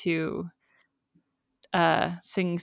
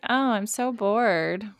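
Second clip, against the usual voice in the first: slow, higher, lightly whined boredom; bored friend imitation; 4 semitones higher, slower than usual. Host imitating the girl's friend on the phone, bored. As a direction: drag it out like a bored preteen. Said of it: "her friend was like".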